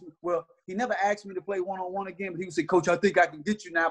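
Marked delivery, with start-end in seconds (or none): 2.6-3.9 light, smiling challenge; said with a smile. Retold or imitated. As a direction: tease the coach with a grin. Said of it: "he would say it with a smile".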